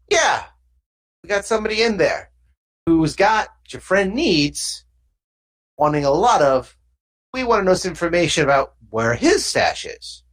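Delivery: lightly voiced thug explaining the catch; a hint of gangster, measured and sly; thug deal-maker. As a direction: negotiate like a street fixer.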